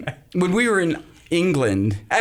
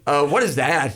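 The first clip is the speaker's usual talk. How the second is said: lightly voiced lower-pitched husband; mock a baffled husband, pitched down; puzzled husband; 5 semitones lower than usual. Host voicing husband overhearing bedtime recording, mildly gruff puzzlement. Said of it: "your husband's gonna be like".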